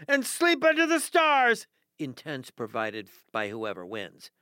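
upbeat contest announcer read; radio contest promo. Acted. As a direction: pitch the contest like a DJ.

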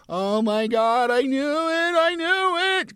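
put-on high, loud, tearful wail of a child; a kid breaking down in tears at the truth; crying outburst.

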